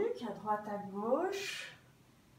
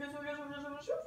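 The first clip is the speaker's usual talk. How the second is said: breathy exhale; 2 semitones higher, 7 dB quieter, much faster than usual. Shown as a demonstration. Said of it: "Je vais bien au bout du souffle".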